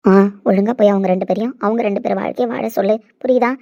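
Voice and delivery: ordinary talk, nothing marked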